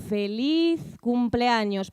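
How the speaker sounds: a lightly voiced frail grandmother, drawn out slowly; old grandmother stretching out her birthday wish; grandmother's slow greeting. Grandmother answering her family, lightly voiced, slow. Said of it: "Repita eso, abuela".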